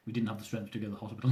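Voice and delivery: laughing while speaking. Real, not acted. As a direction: say it through a laugh.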